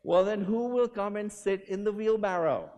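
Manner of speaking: rally a huge crowd with it; enacted Great Blondin. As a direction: daredevil shouting out to the crowd. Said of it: "And he said".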